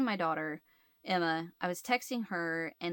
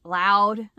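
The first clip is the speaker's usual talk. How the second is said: "loud" drawn out and much louder; emphatic LOUD; 9 dB louder than usual. Real, not acted. Telling how husband yelled, "loud" said with loud emphasis. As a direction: hit "loud" hard, alone after a long pause.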